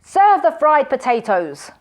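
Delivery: loud, slow, demanding order; angry command. A narrator's reading. Hungry magician ordering his servant, loud and slow.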